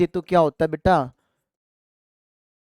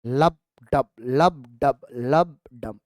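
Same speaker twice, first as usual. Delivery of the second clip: mimicking heartbeat; 4 semitones lower, much slower than usual. Shown as a demonstration. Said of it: "sound कैसी आती है".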